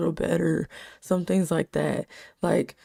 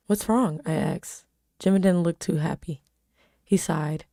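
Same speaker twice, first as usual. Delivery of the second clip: even storytelling read; story narration. A narrator's reading. Reading her story aloud.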